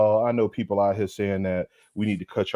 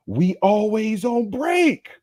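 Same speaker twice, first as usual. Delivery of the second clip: 1 mock high voice; 11 semitones higher, much slower than usual. Mock scolding, high and far.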